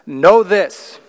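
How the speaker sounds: loud, punchy "Know this"; dramatic command. Shown as a demonstration. Preacher showing the verse's dramatic opening, loud. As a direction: make them sit up and listen. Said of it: "that's sort of a dramatic way to start".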